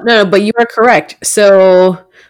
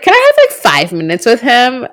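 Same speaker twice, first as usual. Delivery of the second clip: mock girly voice; 5 semitones higher than usual. Claire quoted by male host.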